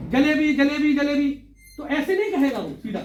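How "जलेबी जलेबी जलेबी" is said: lightly voiced street seller, a bit louder; radio drama hawker. Shown as a demonstration. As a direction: repeat "जलेबी" like a vendor's call. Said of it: "radio नाटक में जैसे है".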